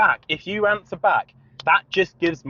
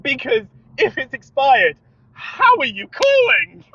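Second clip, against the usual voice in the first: sarcastic challenge; 9 semitones higher, 4 dB louder, slower than usual. Retold or imitated. Sarcastically challenging the sales caller.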